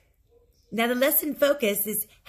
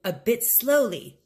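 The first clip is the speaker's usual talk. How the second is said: slow model phrase; slower than usual. Shown as a demonstration. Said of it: "How did he ask him to do that?".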